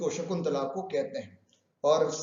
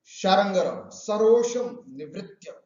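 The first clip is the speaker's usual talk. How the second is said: angry recitation; 5 dB louder, slower than usual. Acted. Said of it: "बड़ा गुस्सा करके शारंगरव".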